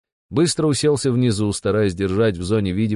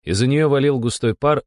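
usual speaking voice

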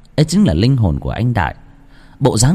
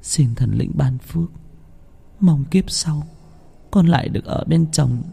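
higher, softer hushed prayer; 6 semitones higher, 4 dB quieter than usual. A narrator's reading. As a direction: pray to the gods with joined hands. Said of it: "ngước mặt lên trời chắp tay". (vợ chắp tay khấn thần linh)

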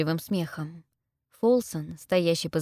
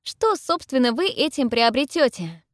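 high, raised question; pressing, louder challenge; defiant challenge; 7 semitones higher, 5 dB louder than usual. A narrator's reading. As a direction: demand to know what he gains. Heroine challenges the lord.

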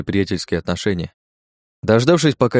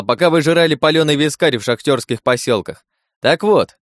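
booming announcement; 7 semitones higher, 3 dB louder than usual. Acted. Trai announces to crowd.

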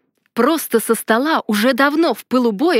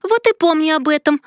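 triumphant retort; 6 semitones higher than usual. A narrator's reading. Heroine shouts after the ousted rival, gloating higher retort. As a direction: fling it back gloatingly.

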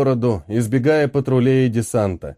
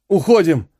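зов; 3 semitones higher than usual. Acted. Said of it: "позвал мужчина".

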